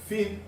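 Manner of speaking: Φ said clearly as "fi"; Φ spoken as "fi" for students to copy; pronounce phi. Shown as a demonstration. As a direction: say Φ slowly and clearly as "fi", like showing the class. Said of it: "Vou colocar aqui a pronúncia".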